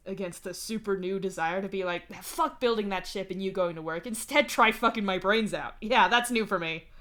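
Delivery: building to loud, eager outburst; bright enthusiasm. A narrator's reading. Dave confessing a new desire, brightly enthusiastic. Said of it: "Dave says with bright enthusiasm".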